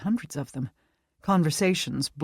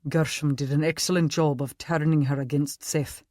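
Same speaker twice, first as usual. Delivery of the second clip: put-on Scottish accent. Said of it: "Scottish accent".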